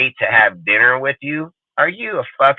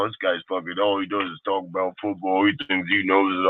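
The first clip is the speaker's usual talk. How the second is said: softer, hushed mock gossip behind someone's back; 2 semitones lower, 7 dB quieter than usual. Fake friend gossiping about the guest behind his back, hushed and sneering.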